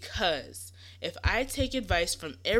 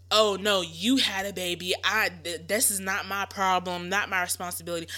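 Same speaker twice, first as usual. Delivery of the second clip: louder, brushed-off imitation of a dismissive grandmother; a daughter mimicking a mother who won't help, loud and dismissive; mock dismissive mother; 6 dB louder than usual. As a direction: toss it off like it's not your problem. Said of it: "their mothers are, like, just".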